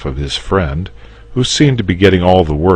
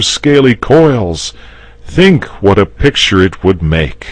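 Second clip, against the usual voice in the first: higher, louder, painting a grand picture; eager knight; 8 semitones higher, 8 dB louder than usual. Acted. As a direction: win him over with the view. George's speech, character voice.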